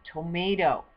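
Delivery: loud, slow word-by-word reading of each word; careful pronunciation demo. Shown as a demonstration. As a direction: sound out every word for the viewer. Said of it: "help you pronounce it".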